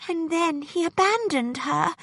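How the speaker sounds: a mild, sorrowful schoolgirl lament; a touch of sadness for the heroine; sadly. A narrator's reading. Hannah recalls the novel's sad turn, mildly sad. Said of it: "Hannah said sadly".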